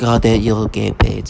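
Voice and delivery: slow, put-on serious voice of a paid shill; mocking the serious tone of paid podcasters; mocking fake-serious tone. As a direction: mimic a hired voice faking gravity, slowly. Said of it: "you're a grown man having to talk like this".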